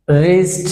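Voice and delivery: রিস্ট said as "rist", silent w; রিস্ট spoken as "rist" for a pupil; wrist said without the w. Shown as a demonstration. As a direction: say রিস্ট starting on the r, no w sound. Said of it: "ডাব্লিউটা silent থাকে".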